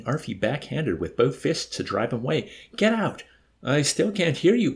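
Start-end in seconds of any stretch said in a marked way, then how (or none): 2.8-3.2 high-pitched desperate order; hysterical yell. A narrator's reading. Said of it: "Yossarian yelled hysterically". 3.6-4.7 raised, higher voice, mildly puzzled; innocent call. A narrator's reading. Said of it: "Arfie called back innocently".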